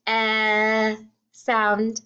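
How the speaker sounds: EH held long, then a pause before "sound"; short vowel demo. Shown as a demonstration. Teacher confirming the middle vowel of pen, stretched EH. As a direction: isolate and stretch eh. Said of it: "I hear the".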